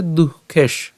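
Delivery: দুঃখেশ with breathed h, closed on sh; broken-off syllable. Shown as a demonstration. Teacher points at the split verse, দুঃখেশ closed on sh. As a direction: stop দুঃখেশ on the sh. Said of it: "প্রথম থেকে উচ্চারণটা কেমন হচ্ছে".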